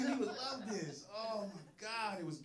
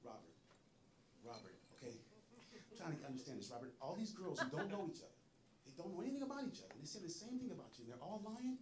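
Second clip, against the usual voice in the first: calm interviewer; 4 semitones lower, 7 dB quieter than usual. Retold or imitated. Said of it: "she was so calm".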